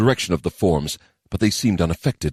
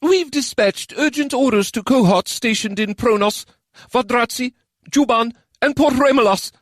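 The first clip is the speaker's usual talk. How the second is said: higher, overloud report; too loud. A narrator's reading. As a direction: answer a bit too loudly. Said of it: "Kisei answered too loudly".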